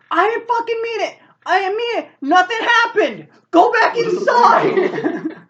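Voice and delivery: very high, loud frantic denial; acted panicked screaming. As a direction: scream excuses in blind panic. Carrie panics after accidental shot.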